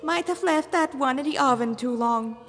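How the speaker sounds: high, mocking sing-song demon voice; gleeful demon. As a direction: joke cruelly about the burned body. Demon character voice.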